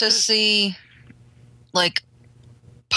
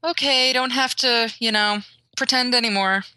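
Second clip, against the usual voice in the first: imitating a slightly higher, relieved voice; lightly raised quoted voice; slight pitch lift; 4 semitones higher than usual. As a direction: lift the pitch a little, then settle. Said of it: "that little bit of a slight pitch".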